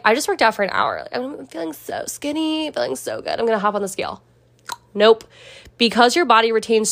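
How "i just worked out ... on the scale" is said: mock smug gym-goer. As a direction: imitate someone feeling great after a workout. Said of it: "You might be like".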